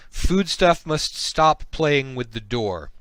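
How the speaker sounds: loud, very slow creature command; telepathic slug voice. Acted. Slug catching prisoner at the padlock, loud slow order. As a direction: order them slowly and forcefully. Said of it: "and it says".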